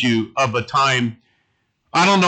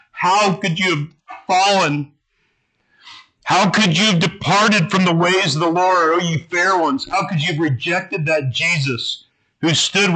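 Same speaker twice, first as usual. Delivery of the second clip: anguished lament; 2 semitones higher than usual. Acted. Pastor reads Mormon's lament over his fallen people, anguished and raised. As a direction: mourn them as a prophet would, voice lifted. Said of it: "it was the anguish of a man".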